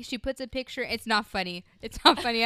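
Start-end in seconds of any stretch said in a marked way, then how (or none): 0.8-1.6 laughing while protesting. Real, not acted. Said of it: "I don't know why I'm laughing". 1.8-2.4 laughing, louder insistence. Real, not acted. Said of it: "I don't know why I'm laughing".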